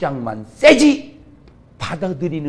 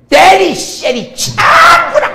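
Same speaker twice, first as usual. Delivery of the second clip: slow, much higher, very loud rough yell; Gyeongsang shout; 14 semitones higher, 12 dB louder, much slower than usual. Retold or imitated. Preacher imitating a Gyeongsang man yelling to hit and kick, hammed-up loud shout. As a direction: bellow it like a brawling Gyeongsang man. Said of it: "우리는 그래".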